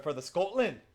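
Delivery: a quick, light attempt at a Scottish accent. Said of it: "better than some actors I've heard on T V try to do a Scottish accent".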